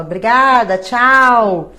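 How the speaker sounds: fed-up brush-off on the phone; firm dismissive goodbye. Retold or imitated. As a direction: end the call on the spot. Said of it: "Aí eu falo".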